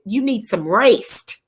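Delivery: "rest" stretched slowly into "rayst"; drawled Southern "rest". Retold or imitated. Quoting Grand Margaret to a friend, "rest" drawled as "rayst". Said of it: "In the word of Grand Margaret".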